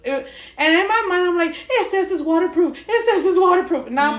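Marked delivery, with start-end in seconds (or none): 1.7-3.9 laughing. Retold or imitated. Self-reassurance, laughing.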